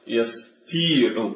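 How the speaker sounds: "ويستيع" drawn out slowly with a plain ت; light ت. Shown as a demonstration. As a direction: stretch "ويستيع", keeping the ت light. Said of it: "نقلب الطاء إلى تاء". (نطق "ويستيع" ببطء بتاء مرققة)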